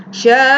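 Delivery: "Sya'a" with the first vowel held very long; long mad. Shown as a demonstration. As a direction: stretch "Sya" on one note, then stop on 'a. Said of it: "itu adalah mad wajib".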